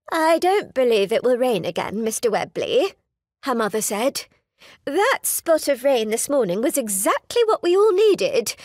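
a chatty society mother making small talk. Acted. Mother voiced across long speech.

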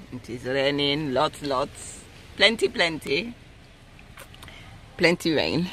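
a hint of an African accent. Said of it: "my African accent coming on".

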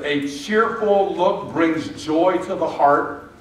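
measured Bible reading, each word laid down; slow scripture reading. Shown as a demonstration. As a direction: read the verse slowly and deliberately. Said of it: "It says".

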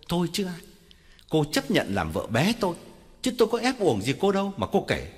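through gritted teeth. Acted. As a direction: cut her off for good. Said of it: "Ông nghiến răng bảo". (nghiến răng nói)

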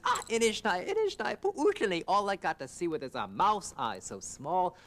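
high, loud keening complaint; pitiful wailing. Acted. Coyote wails his misery to Buffalo, high keening. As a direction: whine like a pitiful blind creature.

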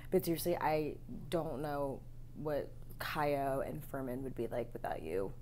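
holding back tears, almost whispering; emotional. Real, not acted. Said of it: "I'm getting, like, emotional".

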